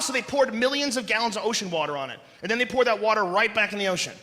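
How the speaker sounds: usual speaking voice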